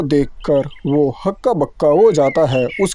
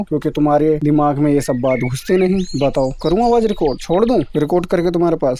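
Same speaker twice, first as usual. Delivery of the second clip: exasperated scolding; faster than usual. Acted. Mother telling off her daughter, fast and exasperated. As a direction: rattle off the rebuke, fed up. Parent scolding repeated mistakes.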